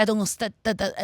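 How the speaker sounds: retold stutter, stuck on "stu"; imitated stuttering. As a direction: act out getting stuck on the first syllable. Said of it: "I started stuttering. I got so angry".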